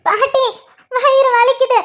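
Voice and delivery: acted tearful moan; crying in pain. Pregnant woman tells grandmother her stomach hurts, tearful and in pain. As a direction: plead through belly pain.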